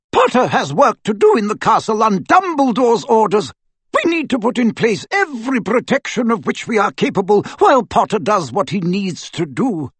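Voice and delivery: high, firm commanding voice; brisk orders to the staff; stern witch. A narrator's reading. McGonagall gives orders.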